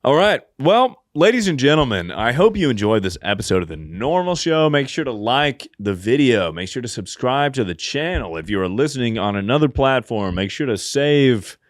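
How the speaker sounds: host thanks listeners and reads credits in an upbeat sign-off voice; podcast sign-off. Acted. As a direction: wrap up the show like an announcer. Show sign-off outro.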